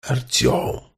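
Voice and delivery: eerie voiceless rasping call; inhuman voice. Acted. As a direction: call the name like a lurking monster. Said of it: "нечеловеческий голос, срывающийся в жутковатый клёкот". (нечеловеческий голос с клёкотом)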